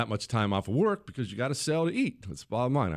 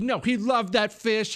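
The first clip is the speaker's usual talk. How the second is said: high, louder mock wife voice; wife defending son; 11 semitones higher, 4 dB louder than usual. Wife defending the son's grief, high mock voice. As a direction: take the boy's side, pitched up. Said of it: "And she said".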